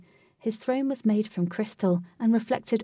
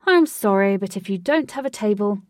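much louder, firm refusal; loud guard refusal; 7 dB louder than usual. Acted. Guard refusing guests with no table, loud and firm. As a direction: shut them down like a bouncer.

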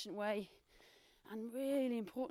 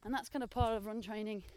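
talking mid-run; a bit breathless while running; while jogging. Real, not acted. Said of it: "time to run again".

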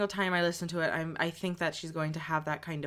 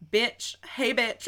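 higher imitated Southern accent; mock Southern greeting, pitched up; 5 semitones higher, much slower than usual. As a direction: call it out in a put-on Southern voice. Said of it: "I think she literally goes, like".

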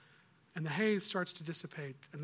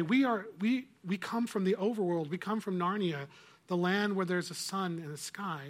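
earnest insisting; 3 semitones higher, 4 dB louder than usual. Acted. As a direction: insist it's real, voice lifted. Children insist to the witch.

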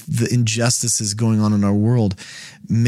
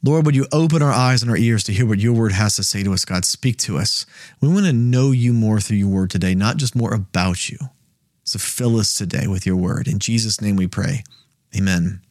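prayer; 2 semitones lower than usual. Real, not acted. Opening prayer.

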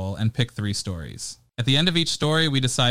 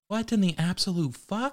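incredulous outburst; 7 semitones higher, 5 dB quieter than usual. Acted. Reacting to absurd bit name.

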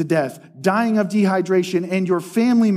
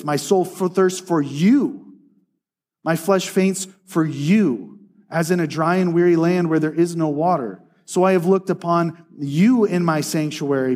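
scripture reading. Acted. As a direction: read the psalm as a heartfelt prayer. Reads psalm verses again.

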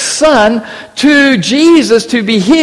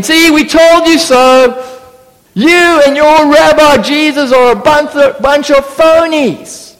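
heckling; 5 semitones higher than usual. Retold or imitated. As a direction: sneer it at the disciples. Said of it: "probably started heckling".

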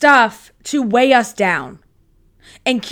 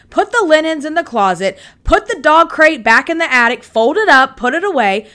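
bossing herself; 4 semitones higher, 4 dB louder than usual. Real, not acted. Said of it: "I'm talking to myself right now".

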